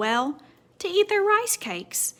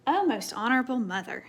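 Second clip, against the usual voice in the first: breathless whispered panting. Acted. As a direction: gasp it out, out of breath. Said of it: "he panted".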